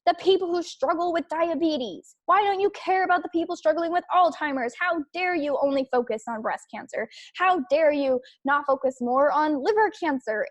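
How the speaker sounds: a hint of an angry picketer shouting at a cancer charity; mock angry protester. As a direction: imitate a picketer demanding answers, hammed-up. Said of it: "picket and angry and get in their face and be like".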